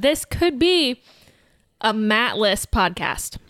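slow teasing pronouncement; mock dramatic. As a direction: drag it out for effect.

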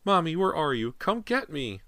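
put-on high little boy's cry; little child calling. A narrator's reading. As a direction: plead for mother in a child's high voice. Lost boy cries for mother.

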